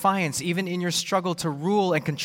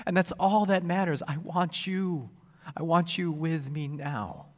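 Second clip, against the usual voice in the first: loving plea; 3 semitones higher than usual. Shown as a demonstration. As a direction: call her close with longing. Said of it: "calls out to her intensely, lovingly".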